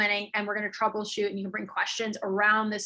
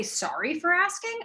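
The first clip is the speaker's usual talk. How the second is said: timid apologetic; 7 semitones higher than usual. Shown as a demonstration. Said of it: "They say".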